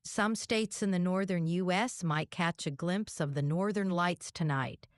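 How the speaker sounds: light Southern twang; hillbilly accent. Pretend. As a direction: report it with a mild Southern accent. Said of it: "You're a hillbilly girl".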